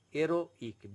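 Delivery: "Heroic" split as "ero... ik", no H; French "Heroic", silent H, in two parts; pause before I. Shown as a demonstration. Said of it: "you have to pause for a moment".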